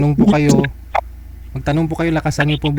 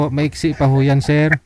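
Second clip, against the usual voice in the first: raised repeat; slower than usual. Real, not acted. Repeating to sir who asked what was said, slightly raised. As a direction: say it over a bit more firmly for someone who missed it. Repeats after listener asks "Ano daw?.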